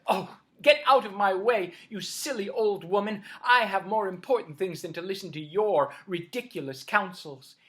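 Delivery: put-on loud, scornful snap at an old woman; spoiled sister shouting at a stranger; rude brush-off. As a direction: shove her aside with contempt. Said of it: "But Manyara said".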